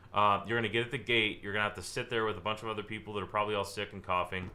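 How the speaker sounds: miserable pitch. Shown as a demonstration. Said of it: "so would I say".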